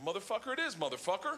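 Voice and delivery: conceding with a laugh; laughing through the final word; laughing agreement. Retold or imitated. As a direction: give in and laugh. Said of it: "I was like".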